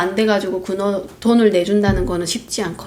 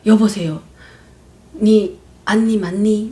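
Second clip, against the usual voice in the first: slow North Korean dialect question; North Korean accent; slower than usual. Retold or imitated. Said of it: "북한 사투리로".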